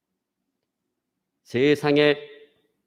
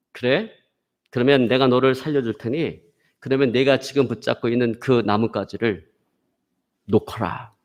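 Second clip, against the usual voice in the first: measured divine command, sinking lower; lightly acted God, slowing and dropping toward the order; 3 semitones lower than usual. God tells climber to let go, calm lowering voice. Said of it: "세미한 음성이 들려오기 시작했습니다".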